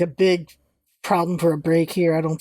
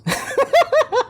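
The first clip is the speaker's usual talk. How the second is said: high-pitched burst of laughter. Real, not acted. Player breaking up at the game scene, high laughing.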